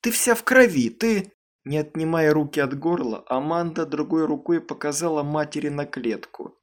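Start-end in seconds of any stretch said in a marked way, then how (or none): 0.0-1.3 high, loud alarmed cry; mother cries out at the blood. A narrator's reading. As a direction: gasp it out in shock. Mother sees bloodied daughter.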